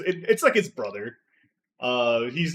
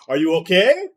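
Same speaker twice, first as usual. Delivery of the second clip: loud, high fighting-game hero cry; Terry Bogard voice; 8 semitones higher, 16 dB louder than usual. Shown as a demonstration. Player rolls for a point, shouting it like a fighting-game hero. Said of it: "in a Terry Bogard voice asking".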